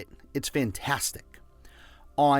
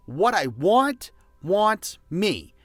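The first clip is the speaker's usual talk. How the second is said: call to repeat; 5 semitones higher, slower than usual. Shown as a demonstration. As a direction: lead the crowd, slower and higher. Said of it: "Repeat after me".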